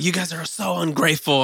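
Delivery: mom impression. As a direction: complain like an indignant mom. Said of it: "She's like".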